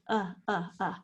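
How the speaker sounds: UH repeated as a short, lazy vowel; lazy schwa. Shown as a demonstration. Teacher isolates the schwa in second, repeating a lazy UH. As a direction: say UH loosely, each one separate. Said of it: "That schwa is that lazy vowel sound".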